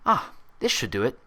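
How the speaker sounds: bright, pleased nurse voice; pleased with the fix; happily. A narrator's reading. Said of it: "she said happily".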